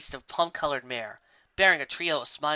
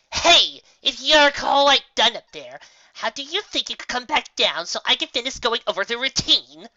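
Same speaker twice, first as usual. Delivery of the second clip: high, loud call upward; calling out bellow; 9 semitones higher, 7 dB louder than usual. Acted. Trixie calling up to Raindrops overhead, loud bellow. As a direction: yell up to her in the sky. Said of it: "called out with a bellow".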